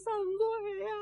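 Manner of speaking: slow, drawn-out mourning wail; keen over the dead husband; widow's wailing. Acted. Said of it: "哇的一声就哭出来了".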